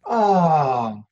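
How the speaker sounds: long falling mock baby "ahh"; imitated contented sigh. Baby just picked up by parent, imitated relieved ahh. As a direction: let out a soothed baby's aah. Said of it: "Then we pick 'em up and they go".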